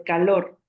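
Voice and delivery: calor with LOR as the stronger syllable; stress on final syllable. Shown as a demonstration. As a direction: say ca-LOR slowly, leaning on LOR. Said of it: "se pronuncia más fuerte".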